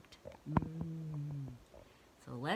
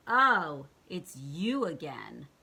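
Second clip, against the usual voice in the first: unhappy tree; 2 semitones lower, 7 dB louder, slower than usual. Acted. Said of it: "doesn't seem very happy to see her".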